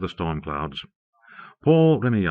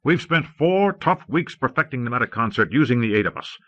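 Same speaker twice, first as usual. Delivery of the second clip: exploding angrily; 4 semitones higher than usual. Acted. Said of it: "The first magnate exploded".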